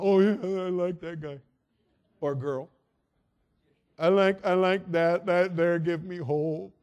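gullible voter. Retold or imitated.

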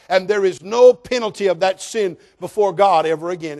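loud, ringing sermon voice; full-force preaching. Real, not acted. Preacher driving home assurance of salvation, preaching loudly. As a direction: preach it out to the pews.

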